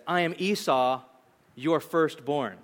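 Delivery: "firstborn" slowed and set apart at the end; pause, then a deliberate "firstborn"; emphasis on firstborn. Acted. Son lying to his father, stressing "firstborn". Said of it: "The emphatic word comes at the end".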